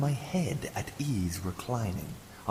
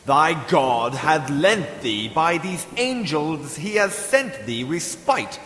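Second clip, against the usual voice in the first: crying out; 5 semitones higher, 5 dB louder than usual. Acted. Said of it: "I cried".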